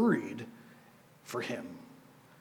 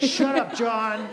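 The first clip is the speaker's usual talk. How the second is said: higher, louder mock snap at the youth pastor; a teen unmuting on Zoom to tease her pastor, mock rude; teasing teen girl; 3 semitones higher, 4 dB louder, slower than usual. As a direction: play the sassy teen telling him off, laughing. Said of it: "She'd be like".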